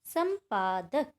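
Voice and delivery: संपादक said slowly, humming the nasal in सं; slow teacher demo of संपादक; demonstrating the nasal. Shown as a demonstration. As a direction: draw out संपादक to let the nasal ring. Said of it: "इसको बोलकर देख लेते हैं".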